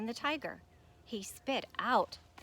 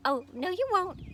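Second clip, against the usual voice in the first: much higher and louder, playful; a gleeful frog darting away; cheeky exclamation; 9 semitones higher, 7 dB louder than usual. Acted. Frog escapes the tiger.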